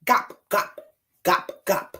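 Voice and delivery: lightly voiced duck quacks; short, separated storybook duck sounds; duck call. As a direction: quack lightly for young listeners.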